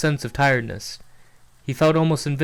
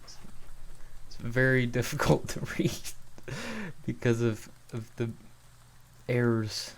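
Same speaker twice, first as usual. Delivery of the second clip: worn-out, soft aside; tired and quiet; 10 dB quieter than usual. Real, not acted. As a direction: mutter it, weary of reading. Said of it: "Feel like I need water".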